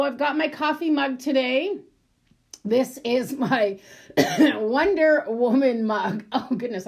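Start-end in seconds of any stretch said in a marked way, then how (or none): 2.6-6.2 throat tickle, catching on coughs; a scratchy throat catching mid-sentence; frog in throat. Real, not acted. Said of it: "I just got a tickle in my throat".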